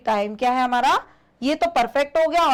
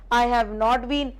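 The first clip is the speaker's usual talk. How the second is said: slow drill; much slower than usual. Shown as a demonstration. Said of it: "teacher drills sentence forms".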